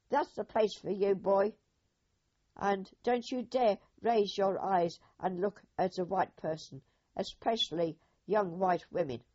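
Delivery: mock harsh berating. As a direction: bark down at him like a bully soldier.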